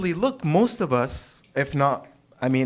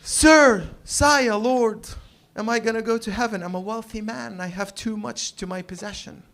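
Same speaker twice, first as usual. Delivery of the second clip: British biblical voice; 5 semitones higher than usual. Acted. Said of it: "They're British for some reason".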